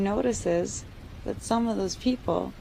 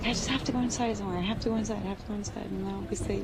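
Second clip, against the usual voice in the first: panicked; 3 semitones higher, 4 dB quieter, much faster than usual. Acted. Panicked thoughts while attacked.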